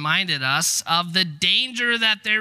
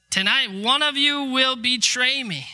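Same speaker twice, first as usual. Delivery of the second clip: lightly acted solemn warning, pitched up; blunt warning; 7 semitones higher than usual. Jesus to his disciples at supper, blunt warning. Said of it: "Jesus warns them bluntly".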